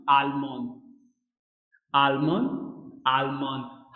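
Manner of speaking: आलमोन with a light, barely sounded nasal end. Shown as a demonstration. Teacher drilling students on the German word, light ending. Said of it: "हल्का sound होगा".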